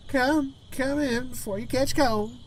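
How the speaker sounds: high, slow grandmother voice; redone Gran voice. Shown as a demonstration. Gran ushers grandchild in from the cold, high slow voice. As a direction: retake it as a clearly high-voiced granny. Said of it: "the other voice I did".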